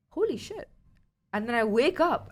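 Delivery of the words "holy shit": much higher, stunned exclamation; the moment it hits you; shocked. Retold or imitated. Realizing belly is flat.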